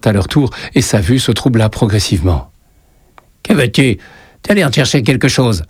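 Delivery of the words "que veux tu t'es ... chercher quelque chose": higher, lightly voiced witch; old witch. A narrator's reading. Kiosk witch questions the boy, witch voice. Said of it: "lança la sorcière du kiosque".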